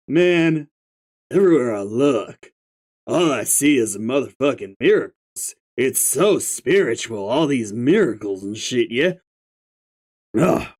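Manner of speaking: stoner troll. Acted. Stoner figure.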